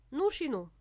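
sharp, loud and severe; a nurse's stern no; stern shout. Acted. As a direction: put your foot down hard. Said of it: "strigă cu severitate".

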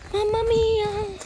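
drawn-out amazement. Acted. Son astonished, drawn out.

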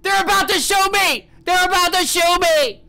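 loud, high fake panic; mock panicked caller. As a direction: play the desperate caller. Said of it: "you call nine one one".

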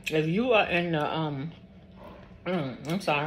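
speaking through a mouthful; chewing mid-sentence; mouth full. Real, not acted. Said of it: "I'm talking with my mouth full".

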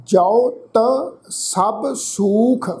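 drawn-out, measured chant of the verse; scripture read like a path; slow scripture recitation. Acted. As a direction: intone each word slowly, reverently.

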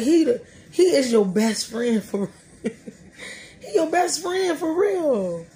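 drawn-out words breaking into laughter; slow, giggly, rising delight; laughing gushing. Real, not acted. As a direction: laugh through it, stretching it out high at the end. Laughs while gushing about God.

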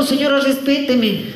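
slow, high mock indignation; stretched-out offended plea; indignant protest. Acted tenant protesting again.

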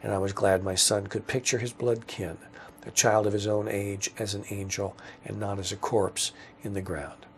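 measured, understated literary reading; story narration. A narrator's reading. Writer reading own story aloud, measured narration. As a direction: read the prose quietly and evenly.

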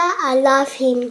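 I love him said slowly, leaning on I; slow, careful repeat; slow, drawn-out I love him. Shown as a demonstration. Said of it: "I said".

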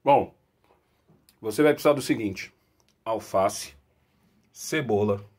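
talking with a mouthful; words around a bite of burger; chewing while talking. Real, not acted. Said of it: "eu tô comendo".

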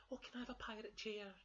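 high-pitched cub plea; begging Baby Bear. Acted. Baby Bear wants a pirate chair, high begging. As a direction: wheedle in a small high voice. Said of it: "begged Baby Bear".

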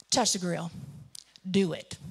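imitating a dad who's had enough, low; fed-up father. Dad daring his daughter to touch grill, fed-up. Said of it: "finally he got tired of my game".

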